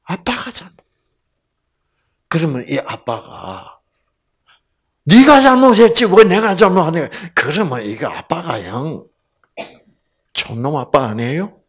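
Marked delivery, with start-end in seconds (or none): 5.1-7.1 loud, high scolding retort; a narrow-minded father rebuking his daughter; angry father. Retold or imitated. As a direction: snap back at the child. A harsh father scolds back.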